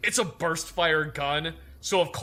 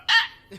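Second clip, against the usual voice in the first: small squeak; 7 dB louder than usual. Retold or imitated. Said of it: "make a small squeak".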